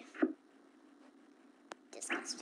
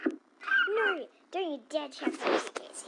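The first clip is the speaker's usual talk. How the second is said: loud protest; 2 semitones higher, 4 dB louder than usual. Acted. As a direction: shout to stop him. Stopping suitcase check.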